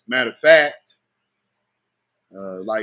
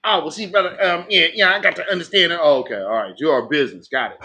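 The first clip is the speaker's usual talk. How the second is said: mock flustered evasion; faster than usual. Mimics their flustered, evasive reply.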